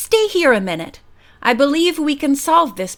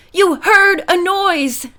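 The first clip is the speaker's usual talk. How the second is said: indignant repeat; 7 semitones higher, 3 dB louder, slower than usual. A narrator's reading. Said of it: "the indignant man repeated".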